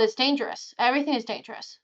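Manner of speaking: lightly voiced little mouse. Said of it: "the mouse looks at you and goes".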